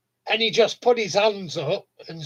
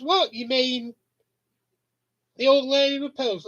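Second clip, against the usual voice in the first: quoted question pitched higher; high mock quote; 6 semitones higher than usual. Trigger's friend asking, higher mock voice. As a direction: ask it in a higher put-on voice. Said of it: "And he says".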